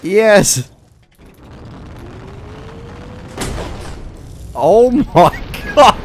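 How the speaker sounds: cheer, then stretch it out in amazement; exultant. Real, not acted. The tower keeps falling.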